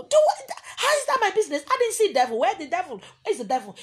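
high, loud incredulous shout; outraged retort. Real, not acted. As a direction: fire it back in disbelief.

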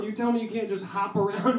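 normal talking voice

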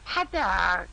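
high squawky duck voice; Psyduck voice. Shown as a demonstration. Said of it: "고라파덕 해줘요".

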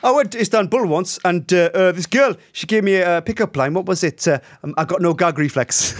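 put-on comedian's joke in a lilting Welsh accent. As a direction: tell it like a Welsh stand-up. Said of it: "in a Welsh accent as well".

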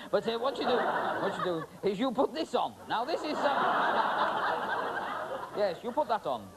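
talking through giggles; words bubbling with laughter; trying to explain while laughing. Real, not acted.

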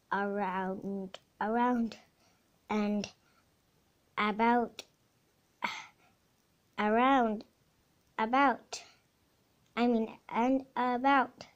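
loud, halting read-aloud exclamation; shouted quote. A narrator's reading. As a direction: call the words out loudly, one at a time. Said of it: "shouted Scout".

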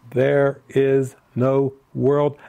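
THERE IS NO WORLD said slowly, word by word; emphatic declaration. Retold or imitated. Quoting Jesus's sentence from the lesson, emphatic. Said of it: "exclamation point after it for emphasis".

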